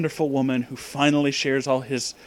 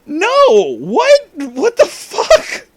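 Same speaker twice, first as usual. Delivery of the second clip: shrieking outrage; 8 dB louder, much slower than usual. Real, not acted. Outraged reaction to story.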